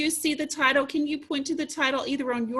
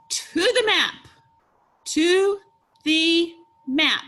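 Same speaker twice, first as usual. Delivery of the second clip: high, loud, enthusiastic reading; excited; 5 semitones higher, 6 dB louder, slower than usual. Shown as a demonstration. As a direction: exclaim it for the children to copy. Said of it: "say it again with excitement".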